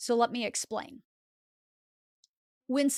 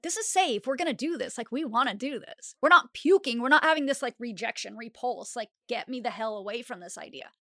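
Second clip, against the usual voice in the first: upbeat inner voice. Acted. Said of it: "it's also letting you know, like".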